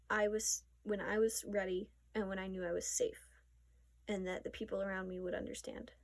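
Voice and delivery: breathless from talking fast; winded, rushing the words; out of breath. Real, not acted. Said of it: "Sorry, I'm out of breath".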